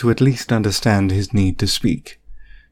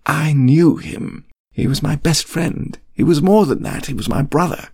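stronger, with conviction; 6 semitones higher than usual. A narrator's reading. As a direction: make her understand, each word weighted. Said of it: "he said, stronger, with more conviction".

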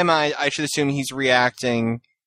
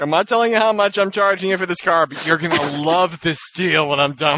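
pushy salesman pitch, a bit higher; used car salesman; 3 semitones higher than usual. Retold or imitated. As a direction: sell it like a used car dealer. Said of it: "Doesn't the speaker sound like a used car salesman?".

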